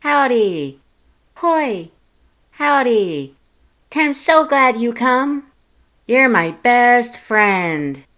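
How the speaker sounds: high, sing-song creepy cute flower; cutesy flower voice. Acted. Flowey greeting the reader, high and sugary. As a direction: chirp it sweet and unsettling.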